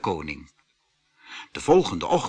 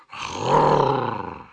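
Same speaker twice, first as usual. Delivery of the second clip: bear growl. A narrator's reading. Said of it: "gromde de beer".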